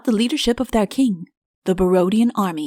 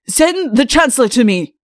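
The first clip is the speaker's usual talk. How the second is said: louder command, falling hard on the end; angry order; 4 semitones higher, 5 dB louder than usual. A narrator's reading. Hidden king orders the sentry to fetch the Chancellor, angry. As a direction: snap the order from under the bedclothes. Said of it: "said an angry voice".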